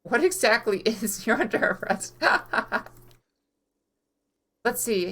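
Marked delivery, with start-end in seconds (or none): 0.0-2.9 laughing. Real, not acted.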